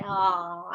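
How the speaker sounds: imitated open-mouthed yawn; mock yawn. Shown as a demonstration. Teacher shows how bored students yawn in class, mock yawn. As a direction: act out a drawn-out yawn. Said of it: "ऐसे type से".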